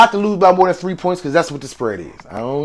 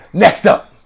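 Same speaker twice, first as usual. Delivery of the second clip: lightly put-on quarterback catchphrase voice; drawn-out team name, then the catchphrase; a hint of a celebrity imitation; Russell Wilson; 2 semitones lower, much slower than usual. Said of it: "in my Russell Wilson voice".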